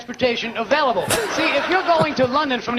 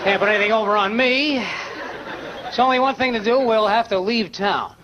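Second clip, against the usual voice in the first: mother's voice; 5 semitones lower than usual. Retold or imitated. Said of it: "She says".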